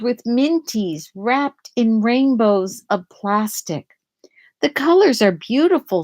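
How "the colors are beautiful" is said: delighted thought. Acted. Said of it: "she thinks".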